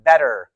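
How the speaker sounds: better with a crisp t and no r at the end; British better, crisp t, r dropped; British pronunciation. Shown as a demonstration. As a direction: say better the British way, clean t, ending uh. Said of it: "A more British pronunciation".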